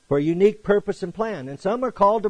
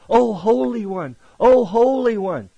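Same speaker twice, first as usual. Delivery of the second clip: higher, louder, slow adoring hail; fawning greeting; 6 semitones higher, 6 dB louder than usual. Retold or imitated. Crowds hailing the teachers in the marketplace, mock fawning. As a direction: hail him like a flatterer in the market. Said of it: "They loved to be greeted in crowded places".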